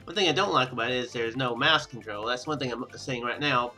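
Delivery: ordinary talk, nothing marked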